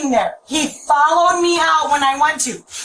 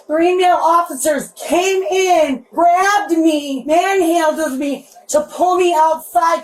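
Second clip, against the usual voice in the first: crying; slower than usual. Real, not acted. Upset woman during arrest.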